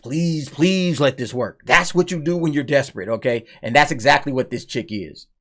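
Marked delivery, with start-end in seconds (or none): 0.0-1.6 slow pleading. Retold or imitated. Desperate lawyer's plea voiced.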